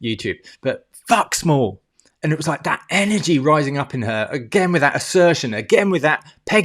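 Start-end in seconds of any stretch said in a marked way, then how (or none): 0.6-1.8 slow, stressed "fuck small"; emphatic swear. Real, not acted. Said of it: "excuse me for swearing".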